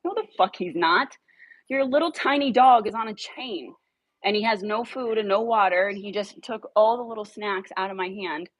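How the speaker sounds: mock outraged comeback about the chained dog; indignant retort. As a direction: fire back in disbelief at her. Retold angry retort.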